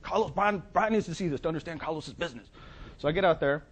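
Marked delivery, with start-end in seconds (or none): 0.0-2.5 high, insistent third-person voice; Carlos Nelson. Retold or imitated. Client shows consultant his business, high insistence. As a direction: insist eagerly, voice pitched up. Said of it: "It's like".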